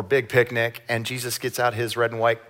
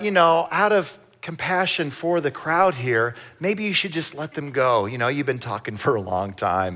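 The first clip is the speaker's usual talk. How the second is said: fake polite; 3 semitones higher than usual. Disciples hinting at Jesus.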